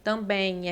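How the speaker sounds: "Também" with the final "em" lengthened into "ẽj"; stretched vowel. Shown as a demonstration. Teacher stretching the word for the class to hear the I. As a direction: draw out the end of "Também" so the I is heard. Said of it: "é como se fosse assim".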